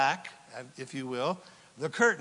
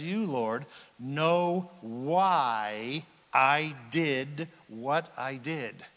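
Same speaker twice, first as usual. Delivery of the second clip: slow reverent psalm reading; tender slow scripture; 2 semitones lower, much slower than usual. Acted. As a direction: linger on each word like a prayer. Quoting psalm slowly, lingering.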